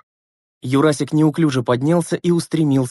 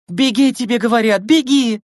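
higher, louder yell, carrying far; loud shout; 9 semitones higher than usual. Acted. Lena shouts at hesitating Gleb to run, loudly. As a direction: yell so everyone around hears. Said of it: "закричала на всю округу".

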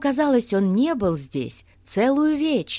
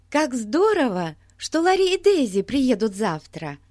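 put-on excited girl; 6 semitones higher, 4 dB louder than usual. Бетси радуется приезду друзей.

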